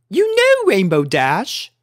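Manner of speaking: high, refined lady voice; a prim unicorn lady; Rarity voice. A narrator's reading. Elder unicorn speaking to Rainbow, high and refined.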